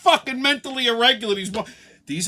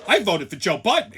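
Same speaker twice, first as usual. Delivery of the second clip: mock-excited claim; 3 dB louder than usual. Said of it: "Excited that she fucked the country up".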